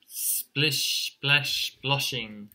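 "splish, splash, sploshing" with hushing sh endings; drawn sh sounds. Acted. Rain falls on the chick, "splish, splash, sploshing" with stressed sh. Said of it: "That sh sound in there is really effective".

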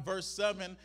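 ordinary talk, nothing marked

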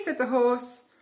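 lively storybook reading; reading to children. A narrator's reading. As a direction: read it like a bedtime story. Reading picture book aloud.

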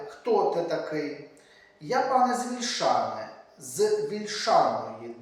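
rhythmic, solemn recital of a poem; poem reading. A narrator's reading. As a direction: declaim the verse like a kobzar telling of old wars. Reads Shevchenko's poem aloud. (урочисте читання поеми)

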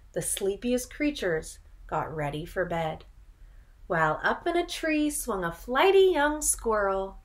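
put-on lilting read-aloud rhythm for children; storybook narration. A narrator's reading. Teacher reading a picture book to children, lilting. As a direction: read the rhyme like a bedtime story.

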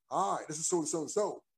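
put-on prank caller faking an American accent. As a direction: fake an American phone greeting. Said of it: "try to put on an American accent and say".

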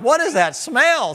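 high, loud, slow alarmed question; startled sniff. Pretend. Griller smelling plastic burning on the steak, alarmed. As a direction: recoil at a strange burning smell.

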